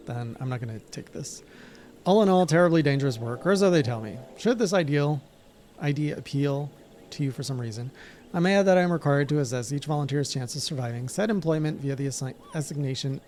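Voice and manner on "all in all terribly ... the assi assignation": a lightly voiced weary guild clerk, dry and formal; hint of a tired bureaucrat. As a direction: read it like a bored official reciting the rules. Reads guild NPC dialogue.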